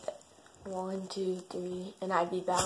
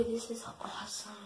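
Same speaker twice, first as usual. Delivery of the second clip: awed whisper; 5 dB quieter than usual. Real, not acted. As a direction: breathe it in wonder. Whispered amazement.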